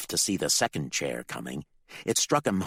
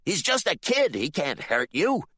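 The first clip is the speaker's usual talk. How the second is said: much higher, louder urging; urging yell; 11 semitones higher, 4 dB louder than usual. Acted. Bill urges his congregation, yelling. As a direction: push them into action.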